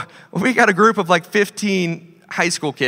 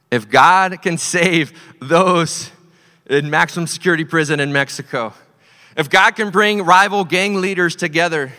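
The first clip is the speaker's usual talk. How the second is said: rising sermon refrain, stressing "God"; building preacher's refrain. Acted. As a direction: lean hard on "God" and stretch each phrase. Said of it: "building preacher's refrain".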